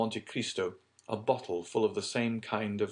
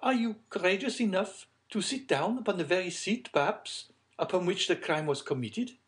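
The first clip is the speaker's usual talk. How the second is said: high-pitched lady's voice; high and playful challenge; smiling lady; 12 semitones higher, 3 dB louder than usual. A narrator's reading. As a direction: tease them in a high, ladylike voice.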